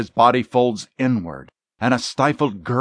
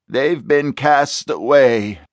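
pitiful; 5 semitones higher, slower than usual. Acted. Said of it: "in utter pitifulness".

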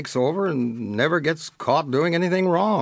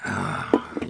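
sigh; 4 dB quieter than usual. Acted. Sheriff reluctant to help brothers.

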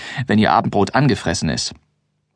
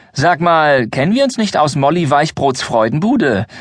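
feigned innocence; 5 semitones higher than usual. Acted. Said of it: "frage ich so harmlos wie möglich".

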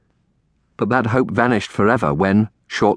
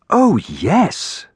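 higher, heartfelt aunt voice; fervent; 9 semitones higher than usual. A narrator's reading. Aunt assures the orphaned girl, fervent. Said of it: "Aunt Felicia said fervently".

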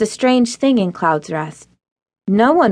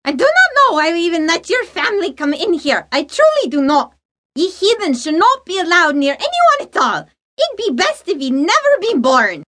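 higher, spiteful snarling matron voice; snarled; 10 semitones higher than usual. Acted. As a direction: spit contempt at the girl. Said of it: "the woman snarled at her in open distaste".

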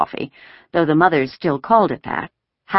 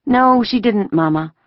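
reassuring denial; 7 semitones higher, 4 dB louder than usual. A narrator's reading. Daughter calming her mother, reassuring. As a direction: deny it to put her at ease. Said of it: "Anne-Marie reassured her mother".

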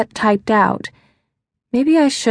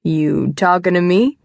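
put-on De Niro accent. Man repeating his joke for her, De Niro accent. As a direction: draw out the movie taxi driver line, rising at the end. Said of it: "in a perfect De Niro taxi driver accent".

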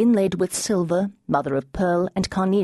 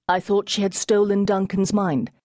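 deep male voice; 5 semitones higher than usual. Acted. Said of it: "a deep male voice".

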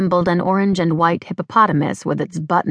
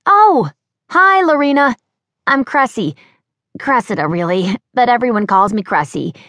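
high, bright-voiced young woman chattering; bubbly young Cressy; 5 semitones higher, 3 dB louder than usual. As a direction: play the flustered, chirpy girl.

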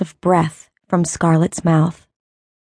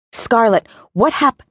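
frantic call; 4 semitones higher than usual. Acted. Frantic calling, cut off.

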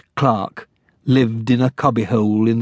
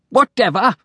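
dismissive mayor; 10 semitones higher than usual. Acted. Repeated dismissive word.

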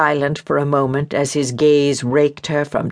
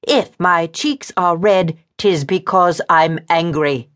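angry, measured woman; 4 semitones higher than usual. Acted. Woman explains why her cheeks are red, angry.

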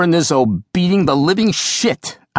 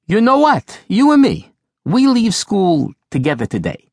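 strident declaration; 6 semitones higher than usual. Retold or imitated. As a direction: declare it boldly, brooking no argument. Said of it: "stridently declaring".

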